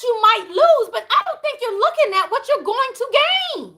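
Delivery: rising, urgent sermon-like push; preaching. Real, not acted. Urging viewers tied to a job to let go, preaching. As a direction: preach it to the ones who need to hear. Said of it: "y'all got me preaching in here right now".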